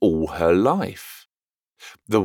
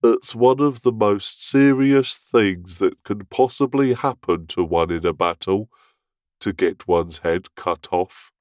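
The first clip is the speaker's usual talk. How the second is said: very gravely. A narrator's reading. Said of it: "he added very gravely".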